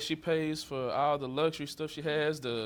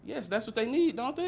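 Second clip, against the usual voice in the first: sarcastic; 8 semitones higher than usual. Acted. Sarcastic jab at ex-wife.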